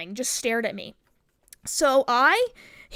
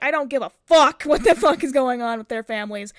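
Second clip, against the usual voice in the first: retold angry outburst; 6 dB louder than usual. Retold angry outburst about the boys.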